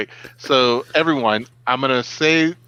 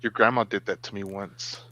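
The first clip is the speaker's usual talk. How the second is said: low, soft deadpan line; movie catchphrase impression; 4 semitones lower, 7 dB quieter than usual. Dad teasing his kids with a film line, mock menacing. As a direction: drop low and quiet, pause before the last word. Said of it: "and I'll be like".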